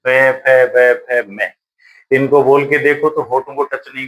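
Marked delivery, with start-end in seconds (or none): 0.0-1.5 पे, फे, बे, फे, में said one at a time; teacher demonstrating lip sounds पे फे बे; sounding out consonants. Shown as a demonstration. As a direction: pop out पे फे बे from the lips. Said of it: "अब पै वर्ग है".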